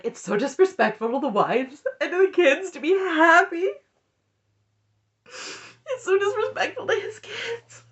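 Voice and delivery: high, fake-sobbing whine; mock whiny crying Robin. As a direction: imitate her tearful wailing, hammed-up. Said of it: "and she's like".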